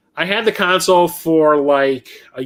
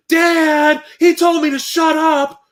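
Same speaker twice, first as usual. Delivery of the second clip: put-on high, whiny child voice, slow; bratty kid complains to his dad about a customer, high and whiny; whiny tattling kid; 13 semitones higher, 4 dB louder, slower than usual.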